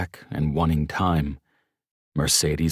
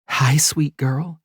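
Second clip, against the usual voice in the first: whispering; 10 semitones higher, 4 dB louder, slower than usual. Acted. Greeting the baby softly.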